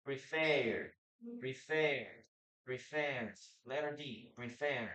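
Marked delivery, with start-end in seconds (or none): 0.0-3.3 "preferred" said in two syllables, pre-ferd; no extra E syllable in "preferred"; silent E in ending. Shown as a demonstration. Teacher models the word for learners, silent E. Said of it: "we don't pronounce the letter E". 4.4-4.9 "preferred" as pre-ferd, E not sounded; silent E in ending. Shown as a demonstration. Teacher shows the letter D ending, silent E. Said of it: "We don't pronounce the letter E there".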